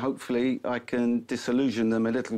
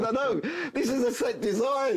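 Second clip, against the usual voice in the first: patient designer; 12 semitones higher than usual. Retold or imitated. Designers answer the bosses.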